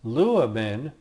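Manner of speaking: teacher modelling "luamen"; careful Greek model word; Greek verb form demo. Shown as a demonstration. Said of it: "and also".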